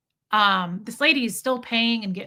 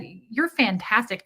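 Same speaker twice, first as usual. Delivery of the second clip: slow, deliberate compliment; pointedly encouraging; much slower than usual. Retold or imitated. Customer praising clerk beside rude woman, pointedly encouraging. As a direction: lay the praise on thick. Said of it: "I purposely did that".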